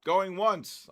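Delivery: loud, drawn-out auctioneer call. Real, not acted. Auction-style countdown call.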